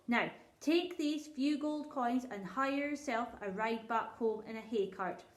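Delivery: a king asking kindly but distracted; lightly voiced king. King makes a royal decree.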